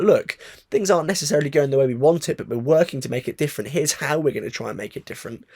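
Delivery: breathless after ranting; winded from a long rant; out of breath. Real, not acted. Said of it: "I'm gonna have to catch my breath".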